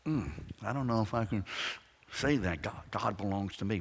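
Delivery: mildly reluctant believer, balking at the words; hesitant doubter. Acted. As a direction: open with a doubtful "mm", then stumble on. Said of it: "I mean, is that kind of".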